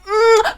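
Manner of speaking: high-pitched, sceptical "mm"; doubtful hum. Real, not acted. Reviewer unconvinced by Adam Driver's accent, high doubtful hum. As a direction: hum it high, withholding the verdict. Hesitant verdict on actor's accent.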